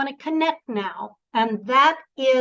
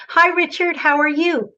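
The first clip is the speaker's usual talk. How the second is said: higher, louder greeting sent outward; sending voice; 5 semitones higher, 4 dB louder than usual. Shown as a demonstration. Coach demonstrates sending voice to Richard, projected higher and louder. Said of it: "I'm gonna say hello to Richard".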